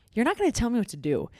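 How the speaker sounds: mock stand-your-ground protest; acted defiance. Girlfriend refusing to be controlled by her boyfriend, mock indignant.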